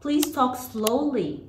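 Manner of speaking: very slow, drawn-out instruction with falling ends; slow model phrase. Shown as a demonstration. Teacher models a classroom instruction for children, very slowly. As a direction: space out each word for learners.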